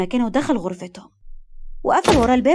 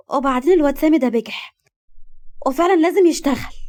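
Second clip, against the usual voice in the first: irritated; 4 semitones higher than usual. Acted. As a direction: spit it out, fed up with him. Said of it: "وكملت بغيظ".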